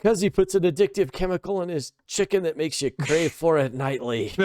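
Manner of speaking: put-on Scottish dad explains his chicken theory in a high accent; Scottish dad impression. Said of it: "He says".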